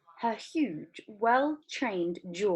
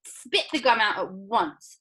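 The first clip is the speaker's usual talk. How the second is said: stern order; 3 semitones higher, 5 dB louder than usual. Acted. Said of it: "ordered Mister Beauregard".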